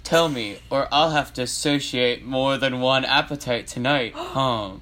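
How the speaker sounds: lightly voiced threatening clown; a hint of a villain's guy voice; teasing threat in character; Pennywise. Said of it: "then I'll do Penny voice".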